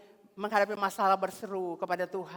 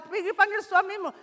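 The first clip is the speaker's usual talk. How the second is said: Jesus' gentle command; 12 semitones higher, 8 dB louder than usual. Acted. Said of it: "Tuhan bilang".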